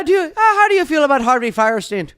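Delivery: put-on high shouted Irish accent; loud hammy Irish accent. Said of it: "I do Irish guy".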